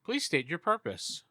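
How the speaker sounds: slow, measured electronic station voice. Acted. Game master as the station challenging the ship, electronic voice. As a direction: speak like an automated comms system. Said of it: "the voice is very electronic now".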